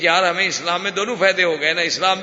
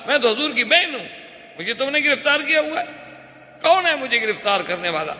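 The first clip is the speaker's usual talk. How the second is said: raised, insistent pleading cry; an old captive woman demanding to be heard; mock clamour; 6 semitones higher than usual. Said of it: "ایک عورت شور مچا رہی ہے".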